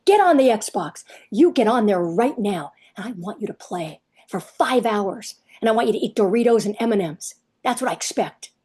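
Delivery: lightly acted bossy parent, slowing to spell out orders; mock parental command. Parent ordering a kid onto the Xbox, mock command. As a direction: lay down the law as a mock-strict parent.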